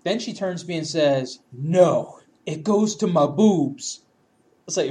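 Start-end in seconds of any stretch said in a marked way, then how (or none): 1.5-4.0 slow mock-drunk correction; drawn-out tipsy insistence, imitated; insistent drunk woman. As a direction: imitate a drunk stubbornly drawing out each word.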